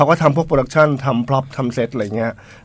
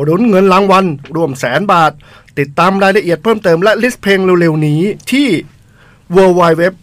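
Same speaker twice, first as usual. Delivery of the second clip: upbeat on-air promo read, drawn out on the key names; radio ad read; 3 semitones higher, slower than usual. Acted. DJ reads the skateboard contest promo to listeners in an ad voice. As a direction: announce the contest like a DJ selling it.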